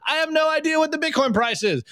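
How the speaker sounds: high, serene guru voice; zen guru voice. Retold or imitated. Zen master in a laser-eyed robe, calmly above it all. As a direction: float it out like a detached sage. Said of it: "And he goes".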